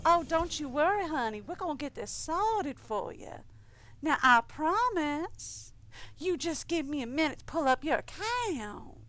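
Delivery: a hint of a syrupy Southern Belle accent. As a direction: soothe an angry caller, Southern Belle style. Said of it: "Southern Belle is one of my better ones".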